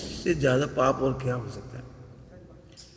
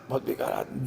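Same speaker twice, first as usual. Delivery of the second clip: softer, mildly scornful aside; dismissive judgement; 3 semitones lower, 4 dB quieter than usual. Acted. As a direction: mutter it low, writing someone off. Acting out contempt for another's faults.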